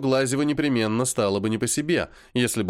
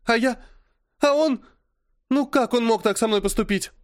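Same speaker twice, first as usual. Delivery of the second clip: put-on high, tearful lament of a hurt girl; plaintive tearful complaint, pitched high; 11 semitones higher than usual. A narrator's reading. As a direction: whimper it through tears. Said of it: "вперемешку со слезами и жалобными восклицаниями".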